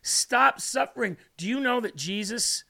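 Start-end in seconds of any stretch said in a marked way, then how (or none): 0.0-1.2 mildly pleading, raised pitch at the end; begging. Acted. Preacher voicing God begging a listener, pleading. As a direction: plead with a touch of urgency. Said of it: "screaming, crying, begging".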